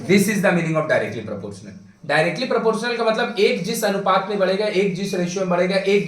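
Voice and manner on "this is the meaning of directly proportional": slow summing-up. Real, not acted. Teacher summing up the definition.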